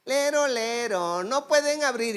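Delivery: a hint of a taunting little boy; child's voice. Preacher retelling a possessed brother's child voice, lightly mock taunting. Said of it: "comenzó a hablar con voz de niño".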